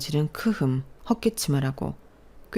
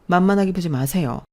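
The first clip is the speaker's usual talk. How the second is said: louder firm warning; firm defiance; 3 semitones higher, 5 dB louder than usual. Acted. Daughter warning father not to look down on boyfriend, firm defiance. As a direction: stand up to him firmly.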